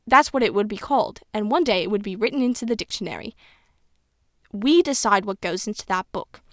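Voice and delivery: lightly voiced old British schoolteacher; old woman explaining, hint of British accent; a touch of elderly British teacher; Miss Granger. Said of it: "I'm trying to sound how Miss Granger would sound".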